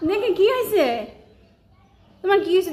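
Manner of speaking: high cooing pet voice; pet talk. Real, not acted. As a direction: ask the sulking cat kindly. Coaxing a sulking pet.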